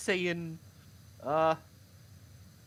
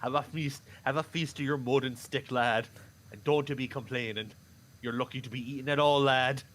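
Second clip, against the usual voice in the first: put-on stern old father; 6 semitones lower than usual. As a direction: lower gruff pa scolding his lad. Father scolding the boy.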